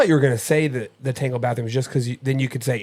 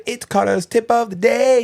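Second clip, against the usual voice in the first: announcer; 10 semitones higher, 4 dB louder than usual. Pretend. Announcing the segment.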